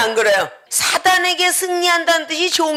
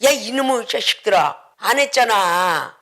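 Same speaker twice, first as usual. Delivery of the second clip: mock scolding; 4 semitones lower than usual. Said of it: "그렇게 해도".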